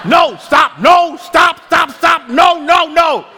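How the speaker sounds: rapid-fire high shouts; mock parental scolding. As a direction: shout repeated commands like a frazzled parent. Imitating parents scolding little children all day.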